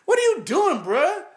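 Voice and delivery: high mocking shout with a laugh in it; mock yelling. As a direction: yell up high, taunting him. Mock shouting at crying player.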